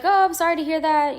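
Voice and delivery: polite brush-off. Retold or imitated. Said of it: "And she was like".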